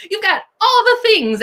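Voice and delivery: high, laughing cheer; playful pitch leap through laughter; laughing encouragement. Real, not acted. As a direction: laugh as you cheer her on.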